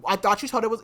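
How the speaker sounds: loud, high-pitched indignant retelling; acted-out anger. Storyteller voicing Kaltain's outrage that the plan failed, pissed. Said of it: "Kaltain is pissed 'cause she's like".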